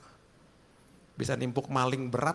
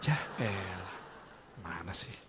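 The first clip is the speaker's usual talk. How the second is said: usual speaking voice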